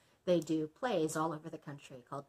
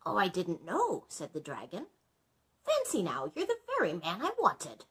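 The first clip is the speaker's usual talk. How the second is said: dragon voice; 3 semitones higher, 5 dB louder than usual. Acted.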